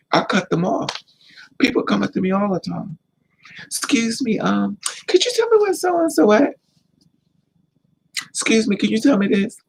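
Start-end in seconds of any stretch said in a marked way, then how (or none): 3.6-9.6 mock polite stranger. Voicing strangers who come up.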